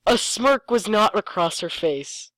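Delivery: slow, weighty read; slow dramatic reading. Shown as a demonstration. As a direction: lay the line down slowly and gravely. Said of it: "when we read this with my friends".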